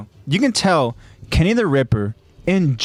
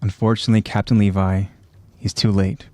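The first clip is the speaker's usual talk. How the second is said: measured, dramatic recap narration; story narration; 6 semitones lower than usual. A narrator's reading. Host recaps a violent anime scene for listeners, dramatic narration.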